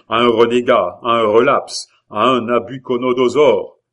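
forceful speech building in loud accusations; zealous orator. Acted. La Hurière denounces the Huguenot heir, building oratory. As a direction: build to loud, punched name-calling.

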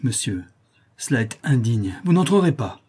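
bar the way with a desperate cry; frightened mother crying out to the intruder; cried out. Acted. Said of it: "s'écria la malheureuse mère".

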